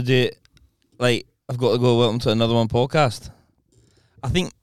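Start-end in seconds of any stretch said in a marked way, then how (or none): 1.5-3.3 Edinburgh-leaning Scottish accent; lightly put-on Scottish accent. Shown as a demonstration. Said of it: "Yours is more Edinburgh".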